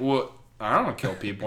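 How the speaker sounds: low, soft, mildly acted protest; taken-aback reply. Spider-Man answering the spider's grim question, quietly taken aback. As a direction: answer under your voice, uneasy.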